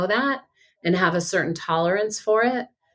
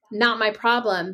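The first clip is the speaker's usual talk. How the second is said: dismissive; 3 semitones higher than usual. Retold or imitated.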